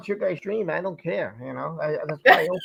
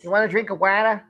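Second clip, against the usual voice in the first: "water" with a dropped R, Boston-style; Boston accent. Acted. Host mimicking a local offering a drink, Boston accent. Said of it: "you go to Boston".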